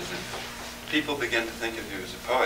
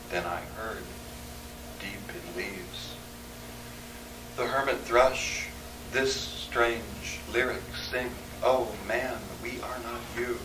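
poetry reading; 2 semitones lower than usual. Acted. Poet reading a wilderness reverie aloud, softening measured verse. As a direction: recite it gently, hushing as the storm dies away. Reads narrative poem aloud.

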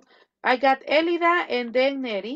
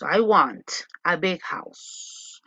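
slower, lower repeat; 5 semitones lower, much slower than usual. Shown as a demonstration.

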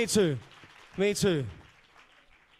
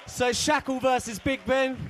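announcer shout; 5 semitones higher than usual. Real, not acted. Host calling the battle pairing, announcer shout. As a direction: call the battle out to the room.

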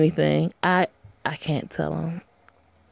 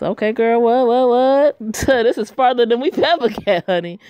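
loud, high excited reaction; excited squeal; 6 semitones higher, 7 dB louder than usual. Real, not acted. Player cheers on the game's romance, loud and excited. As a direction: hype up the big moment.

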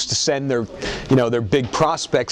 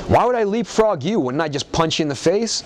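puzzled Brock; 4 semitones higher than usual. Retold or imitated. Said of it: "looks at me and goes".

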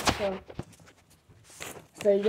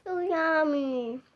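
slow, talking through food; mouth full; 6 semitones higher, slower than usual. Real, not acted. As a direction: say it around a mouthful. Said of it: "Don't talk when your mouth is full".

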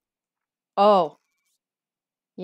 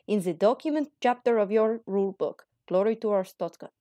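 put-on Russian accent. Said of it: "my foreign Russian accent".

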